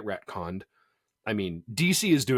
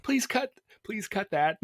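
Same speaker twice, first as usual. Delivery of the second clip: high-pitched, embarrassed pleading; squeaky mock plea; 12 semitones higher than usual. Host begs co-host to cut the bad impression, squeaky plea. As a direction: beg in a tiny high voice.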